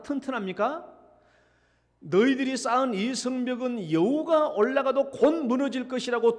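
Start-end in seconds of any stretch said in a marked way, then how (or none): 2.0-6.4 loud mocking taunt, lightly acted; Tobiah. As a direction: throw out the jeer with raised voice. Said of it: "도비아가 조롱했는데". (목소리를 높여 흉내 낸 조롱)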